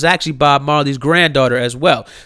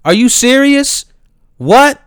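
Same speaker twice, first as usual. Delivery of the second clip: high, loud incredulous "What?"; shocked indignant rise; outraged disbelief; 9 semitones higher, 4 dB louder than usual. Retold or imitated. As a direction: fire back at the campus police. Student's outraged reply.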